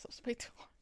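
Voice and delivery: whispered aside. Real, not acted. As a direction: breathe it as a secret.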